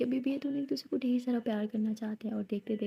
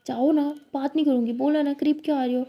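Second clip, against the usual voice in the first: sulky; 3 semitones higher, 6 dB louder than usual. Acted. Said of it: "लिली कहती".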